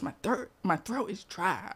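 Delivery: hushed whisper. Retold or imitated. Whispering child continues.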